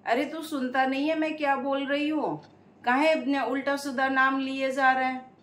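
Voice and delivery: scolding. Acted. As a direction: scold him like a stern woman. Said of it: "निकट जाके फिर डांटा उसे".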